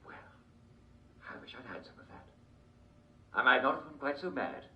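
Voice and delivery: lightly voiced eccentric old king, giddy; a hint of a batty royal, cheerful; Mad King George. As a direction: play a dotty king chatting on a talk show.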